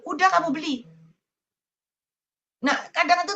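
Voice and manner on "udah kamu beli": higher, lightly voiced God, kindly; a light, higher reassuring voice of God; God's voice. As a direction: play God gently waving it off. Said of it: "Tiba-tiba Tuhan bilang".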